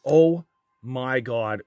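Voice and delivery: slow, stunned oh my God; real disbelief at a great pull; drawn-out thrilled gasp of words; amazed excitement. Real, not acted. Pulls rare Bedard card.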